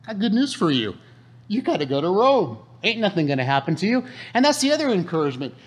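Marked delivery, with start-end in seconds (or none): 0.0-4.0 angel voice. Retold or imitated. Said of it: "the angel of the Lord said".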